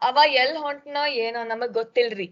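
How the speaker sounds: lightly done North Karnataka Kannada, quick; a mild hint of a North Karnataka speaker; North Karnataka accent. Shown as a demonstration. Teacher contrasting it with the South, a mild North Karnataka accent. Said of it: "If a North Karnataka person would say this".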